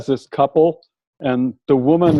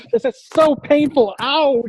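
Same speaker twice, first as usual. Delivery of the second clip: higher, half-laughing mock ouch; mock pained cry; 12 semitones higher, slower than usual. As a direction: play up her pain for laughs. Acting out the woman hitting her head.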